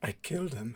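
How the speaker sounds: put-on hushed whisper. Voicing a trembling character repeating a confession: whispering in character. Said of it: "and he whispers".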